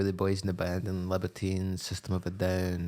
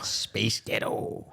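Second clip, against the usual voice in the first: Scottish voice; much slower than usual. Shown as a demonstration. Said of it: "I already have a Scottish voice".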